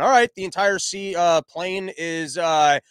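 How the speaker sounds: lightly voiced flight attendant on the intercom, halting over the words; mock cabin announcement. Stewardess telling passengers about open seats, mock announcement voice. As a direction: pretend to improvise an airline announcement. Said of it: "just make that announcement".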